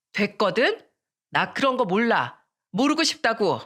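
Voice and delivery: put-on mildly snappish teenage retort; angry brush-off. Miran refusing to hear friend's reproach, annoyed. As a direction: shut it down with some irritation. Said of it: "그렇게 잔뜩 화를 내더니".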